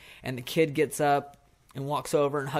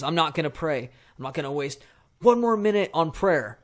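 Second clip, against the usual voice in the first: acted angry refusal, louder and rising; upset and defensive; 3 semitones higher, 6 dB louder than usual. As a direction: refuse heatedly, building to a raised voice. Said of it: "starts getting very upset and defensive".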